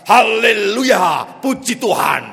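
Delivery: slow, loud call of haleluya. Acted. Preacher urging the horse forward, loud slow call. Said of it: "teriaknya lebih keras".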